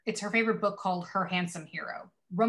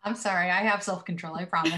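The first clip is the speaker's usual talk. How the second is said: trying not to laugh; faster than usual. Real, not acted. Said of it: "I'm trying to be professional".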